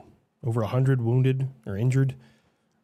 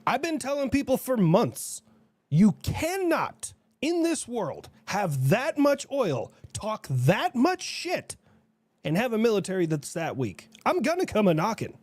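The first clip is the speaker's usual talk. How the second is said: put-on Russian accent; 5 semitones higher than usual. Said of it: "Was that supposed to be Russia?".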